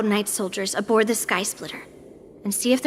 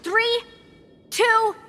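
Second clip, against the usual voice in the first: threatening countdown; 7 semitones higher than usual. Acted. Threatening hidden passengers with countdown.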